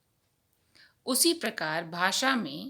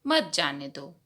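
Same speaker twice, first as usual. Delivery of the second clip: मत जाने दो as one unit; phrase after the pause; 5 semitones lower than usual. Shown as a demonstration. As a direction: start afresh on a low मत, running into जाने दो. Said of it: "यहाँ पर हम रुकते हैं".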